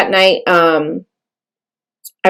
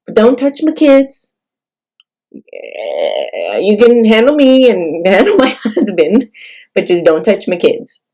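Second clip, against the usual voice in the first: retold tearful prayer; 3 semitones higher than usual. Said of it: "I'm crying on the phone".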